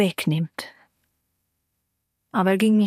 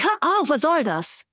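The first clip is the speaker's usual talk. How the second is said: calling out; 7 semitones higher than usual. A narrator's reading. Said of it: "rief ich".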